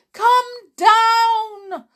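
high, loud call upward; urgent shout. A narrator's reading. Porter to the escaping old lady, shouted. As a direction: holler up at someone. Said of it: "shouted the porter".

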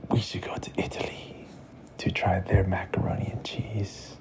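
hushed whisper, sharing a secret. A narrator's reading. Papa secretly suggesting a trip to Italy, whispered. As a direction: breathe it like a bedtime secret.

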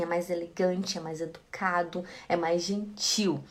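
hushed, low listing; gentle explaining. Real, not acted. Soft listing of polite qualities.

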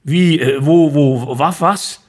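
stammering, half-awake confusion; totally bewildered. Acted. Father just woken from a nightmare: mildly confused stammer. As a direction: stumble over the words, dazed. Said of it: "antwortete ich total verstört".

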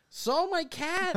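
slow, high giggling reveal; stretched out through laughter; laughing. Real, not acted. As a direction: laugh it out in disbelief. Awed confession, laughing.

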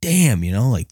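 high, pained damn; mock distress. Fan watching Tony die, high and pained. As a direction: wince it out in pitch. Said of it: "I was just like".

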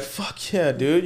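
loud, high, hyped-up cheer. Retold or imitated. Tattooer hyping himself at the shop, loud and excited. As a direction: get jacked up and shout it. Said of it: "you'll be like".

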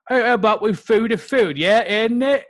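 loud, high eager proposer; goofy guy voice. Retold or imitated. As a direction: pitch the idea like a clueless guy. Guy proposing silly word.

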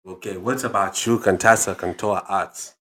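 put-on deliberate African-accented questioning; single out the next pupil in an African accent. Dad turns to second listener, African accent. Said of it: "African accent".

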